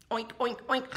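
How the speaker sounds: short oinks into snorts; pig oinking. Acted. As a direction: oink like a pig. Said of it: "what the pig says".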